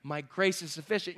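low, soft answer as God; God's quiet reply. Acted. God answers the powerless believer, low and soft. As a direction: drop low and gentle. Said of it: "and he says".

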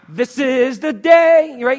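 slow, dragged-out drowsy line; half-asleep morning mumble; groggy Monday wake-up; mock groggy.

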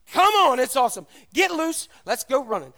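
loud, high, pushy invitation; eager coaxing. Acted. Other donkeys calling to the tied one, loud and eager. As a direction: egg him on like a rowdy friend.

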